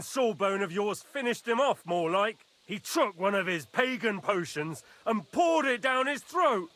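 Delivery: rising into a furious yell; angry shout. Acted. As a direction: bark it out in outrage. Angry lord reporting poisoning.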